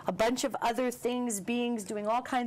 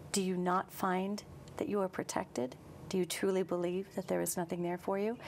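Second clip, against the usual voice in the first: very calm voice. Acted. Guest voicing angels who question you like a therapist, calm. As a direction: ask like an unruffled therapist. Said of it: "this very calm voice that comes in".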